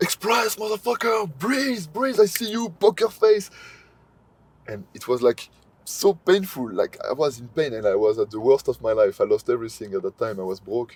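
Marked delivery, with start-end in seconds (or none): 0.0-3.5 shrill, very high-pitched yelled screaming. Retelling being yelled at on a yoga mat: imitating Wim Hof screaming. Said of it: "there is Wim Hof screaming at me".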